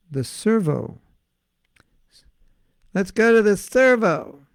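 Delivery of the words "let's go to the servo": mock Australian. Acts out Australian slang.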